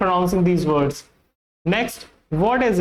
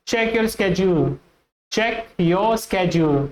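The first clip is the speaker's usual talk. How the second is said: American schedule; much slower than usual. Shown as a demonstration. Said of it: "American pronunciation में".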